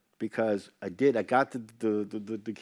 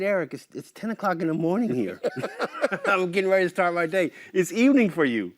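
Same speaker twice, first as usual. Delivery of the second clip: laughing through it, a bit higher and louder; amused laughing refusal; laughing protest; 7 semitones higher, 5 dB louder than usual. Retold or imitated. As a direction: protest while cracking up. Laughing protest at drunk invite.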